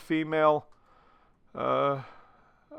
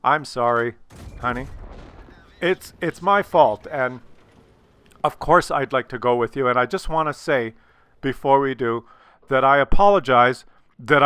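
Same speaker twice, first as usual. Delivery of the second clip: sincere apology; 3 semitones lower than usual. Shown as a demonstration. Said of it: "You have to say this".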